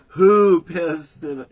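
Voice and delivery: furious yell. Retold or imitated. Stan screaming at Jerry over the bottle, full yell. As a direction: roar it at Jerry.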